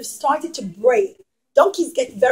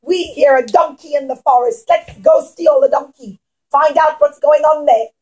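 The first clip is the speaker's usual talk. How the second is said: mild pirate call; 4 dB louder than usual. Acted. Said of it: "the pirates would have said".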